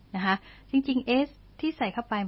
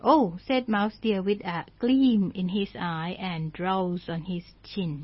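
slow story reading; 2 semitones lower, much slower than usual. Shown as a demonstration. English story read slowly.

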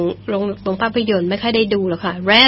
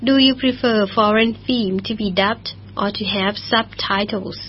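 slow model reading; 3 dB quieter, much slower than usual. Shown as a demonstration. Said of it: "teacher repeats the question".

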